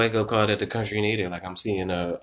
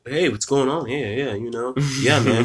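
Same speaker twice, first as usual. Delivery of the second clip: lightly imitated friend's casual greeting, a little higher; white dude's usual talk; 4 semitones higher than usual. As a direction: imitate his ordinary easygoing hello. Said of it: "he talks like".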